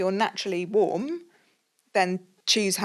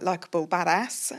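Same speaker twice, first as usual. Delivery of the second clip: English accent. Shown as a demonstration. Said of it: "can't very s-, well say it in an English accent".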